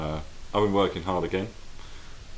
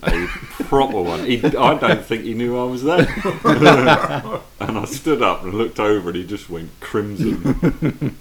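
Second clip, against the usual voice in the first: laughing; 3 semitones higher, 6 dB louder than usual. Real, not acted. Laughing story of colleague.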